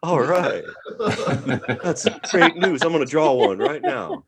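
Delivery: put-on excited little kid voice; mock delighted kid; a hint of an eager young student; eager child. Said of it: "And I was like".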